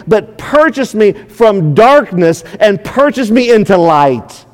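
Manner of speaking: slow, drawn-out mock begging; pleading. Preacher acts out sinners begging at the cross, pleading. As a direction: plead earnestly, stretching the key words. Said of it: "we pleaded and begged and said".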